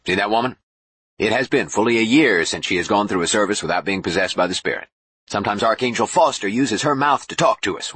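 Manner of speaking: animated, lightly voiced showman bishop; chatty bishop. Boone points out a possessed woman, chatty and eager. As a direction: explain it eagerly with pitch swings.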